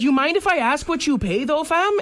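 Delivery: high Toronto slang, rising on fam; Toronto slang accent. Retold or imitated. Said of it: "And she's like".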